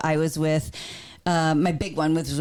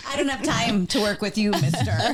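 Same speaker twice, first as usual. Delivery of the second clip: laughing mock brush-off; 3 semitones higher than usual. Acting Marv's brush-off, laughing.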